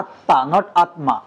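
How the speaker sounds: আত্মা said slowly, first as "atta" with a doubled t, then with the m spelled out; spoken versus written pronunciation. Shown as a demonstration. Teacher contrasts the right আত্মা with the wrong one for the class. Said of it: "কিন্তু উচ্চারণ কি হবে?".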